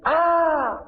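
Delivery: high, slow cry of a possessed man; demon crying out. Retold or imitated. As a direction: wail it out as the unclean spirit. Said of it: "el cual dio voces diciendo". (grito agudo y lento del endemoniado)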